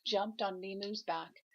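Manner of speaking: gentle storybook read-aloud; grandma reading a picture book to her grandchild; reading aloud to a child. A narrator's reading.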